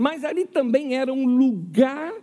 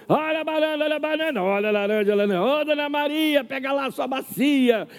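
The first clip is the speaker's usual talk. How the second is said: market barker; 5 semitones higher than usual. Retold or imitated. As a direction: hawk fruit like a feira seller. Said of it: "Que fica gritando o tempo todo".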